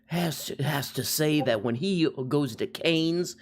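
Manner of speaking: pompous plea to the judge; courtroom lawyer. Pretend. Mock courtroom lawyer address.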